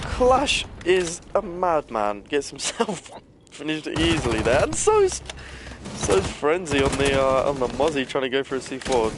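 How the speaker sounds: caster losing it over a play; excited commentary. Real, not acted. Caster hyped by a big play.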